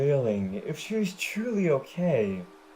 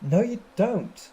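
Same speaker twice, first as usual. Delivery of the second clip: stern; 5 semitones higher, 3 dB louder than usual. Acted. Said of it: "Applejack told her sternly".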